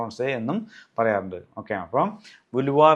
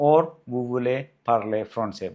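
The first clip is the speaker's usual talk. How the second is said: slow formal model; 3 dB louder, much slower than usual. Shown as a demonstration. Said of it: "in a different way".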